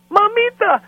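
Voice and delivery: high, loud call across the house; sing-song high call to mother. Retold or imitated. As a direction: shout for mom from the next room. Daughter calls her mother over.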